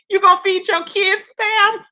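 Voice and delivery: can't believe anyone would; giggling retold outrage; laughing disbelief. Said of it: "She was like".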